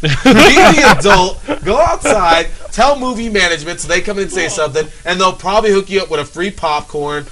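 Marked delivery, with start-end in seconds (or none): 0.0-3.8 stern. Real, not acted.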